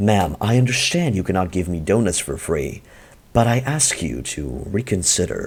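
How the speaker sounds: put-on radio-style voice. Showing how he uses his radio voice in real life, radio voice. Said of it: "when I use the radio voice in real life".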